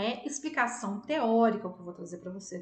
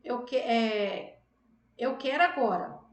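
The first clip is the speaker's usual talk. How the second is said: louder, slowed and insistent; demo insistent request; 4 dB louder, slower than usual. Shown as a demonstration. Teacher demos to students a request lacking its object, insisting. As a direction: press the want without saying what. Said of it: "Ou então você fala assim".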